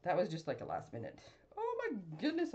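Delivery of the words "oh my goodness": awed sigh. Real, not acted. Admiring finished card.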